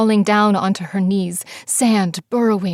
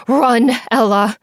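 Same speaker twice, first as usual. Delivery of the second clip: slower, louder urging cry; urgent shout; 3 semitones higher, 6 dB louder than usual. Acted. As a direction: drag out the order to run. Urging friend from the sand.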